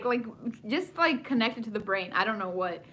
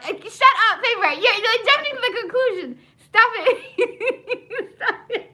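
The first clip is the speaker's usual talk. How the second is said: excited protest; 10 semitones higher, 5 dB louder than usual. Real, not acted. Excited reaction to co-host.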